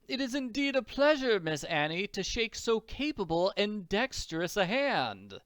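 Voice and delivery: formal, high-starting compliment; courtly doctor. Acted. Doctor shaking the girl's hand, courtly. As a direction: greet the girl with elaborate politeness.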